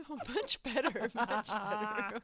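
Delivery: laughing loudly through the words; loud real laughter mid-sentence. Real, not acted. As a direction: crack up while saying it. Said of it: "laughing through the words".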